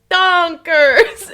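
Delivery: high, loud mock-Swedish shout; booming imitation Swedish accent, drawn out; thick Swedish accent. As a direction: call it out in a hammed-up Swedish accent. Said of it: "in, like, a thick Swedish accent".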